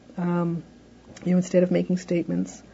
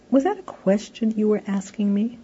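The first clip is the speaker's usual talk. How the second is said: pointed prompt; 4 semitones higher than usual. Shown as a demonstration. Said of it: "said that way".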